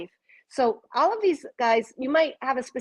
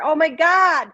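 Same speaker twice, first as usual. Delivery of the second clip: amazed; 5 semitones higher, 8 dB louder, slower than usual. Real, not acted. Amazed at a card.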